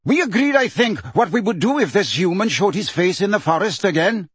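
a proud creature threatening the human; hostile centaur. Acted. Bane reminds the herd of their vow, high and cold.

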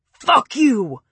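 raw furious scream, starting up. A narrator's reading. Preppy screaming up at the ceiling, furious. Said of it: "he screamed to the ceiling".

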